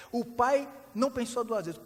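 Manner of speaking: ordinary delivery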